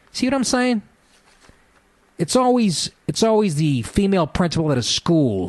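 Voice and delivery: high, exasperated outburst; incredulous. Real, not acted. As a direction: squeak it out in disbelief. Incredulous rant.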